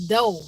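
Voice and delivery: "dough" as door with no r at the end; country "dough" for door. Shown as a demonstration. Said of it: "not the door".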